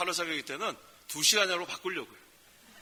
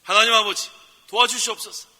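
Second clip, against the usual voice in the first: loud, high cry to God; loud prayer demo; 4 semitones higher, 10 dB louder than usual. Shown as a demonstration. Pastor leads the congregation in a shouted prayer, loud. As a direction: cry it out for the people to repeat. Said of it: "직접 도움을 구하세요".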